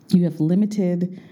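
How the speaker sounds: ordinary delivery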